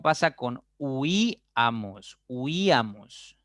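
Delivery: huíamos said slowly with the weight on the í; stressed huíamos. Shown as a demonstration. Teacher modelling the word for students, huíamos slow and stressed. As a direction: stretch out huíamos, leaning on the í. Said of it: "la mayor fuerza cae en la tercera".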